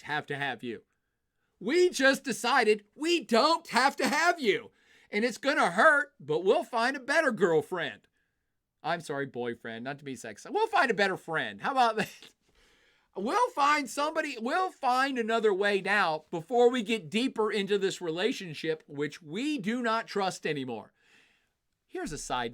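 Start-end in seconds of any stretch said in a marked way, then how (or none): 1.6-4.7 louder, higher and slow, hitting each word; emphatic. Pretend. Germany repeating the rejection to Russia, loud and slow. 5.1-8.1 louder and higher, a mock breakup speech; defiant breakup. Germany breaking up with Russia, loud and defiant. 10.5-20.9 louder and higher, mock breakup resolve; defiant. Germany telling Russia it will find another partner, loud.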